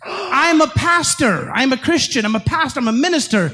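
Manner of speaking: slow, spaced-out declaration; preacher telling attackers his credentials slowly; slow deliberate. Retold or imitated. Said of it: "I said".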